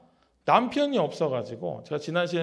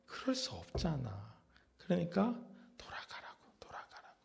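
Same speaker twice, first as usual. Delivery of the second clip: softer, pleading mother-in-law, ending in a whisper; Naomi pleading; 2 semitones lower, 3 dB quieter than usual. Retold or imitated. Naomi urging her daughters-in-law to go home, softly. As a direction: coax them home, fading to a breathy hush. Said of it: "나오미가 또 뭐라고 해요".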